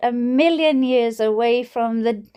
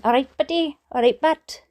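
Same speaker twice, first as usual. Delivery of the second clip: Welsh all right but; faster than usual. Shown as a demonstration. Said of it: "it's not buddy".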